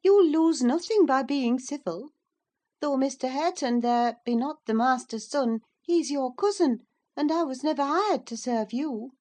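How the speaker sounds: a hint of a firm countrywoman; lightly voiced servant woman. A narrator's reading. The servant woman rebukes Cathy, firm but civil. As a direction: steadily rebuke the spoilt girl.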